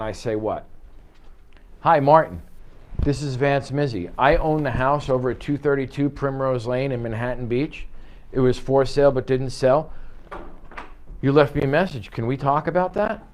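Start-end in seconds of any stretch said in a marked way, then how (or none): 1.8-13.2 slightly raised, polite and open, laying out who he is; friendly explanatory callback. Shown as a demonstration. Agent returning a seller's call, calm and courteous. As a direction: talk to him like a helpful neighbor, not a salesman. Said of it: "Or do I call him back and say".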